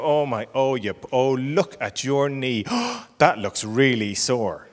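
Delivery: slow, concerned gasp of sympathy; tender, drawn-out parental concern; sympathetic parent. Acted. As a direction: take the child's hurt seriously, slowly. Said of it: "you turn around and you go".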